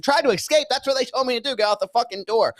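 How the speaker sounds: high-pitched retold indignation; indignant protest. Patient accused of escaping answers staff, mock indignant.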